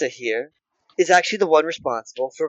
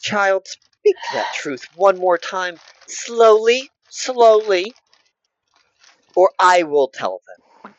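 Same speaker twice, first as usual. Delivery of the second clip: slow commanding matriarch; 4 semitones higher, slower than usual. Acted. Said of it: "what she".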